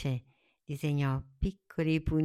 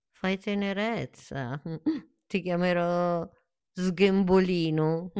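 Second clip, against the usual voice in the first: fond naming; 4 semitones higher, 4 dB louder than usual. Acted. Tree fondly names the flower.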